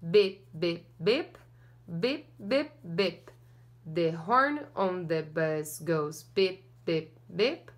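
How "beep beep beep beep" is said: ordinary delivery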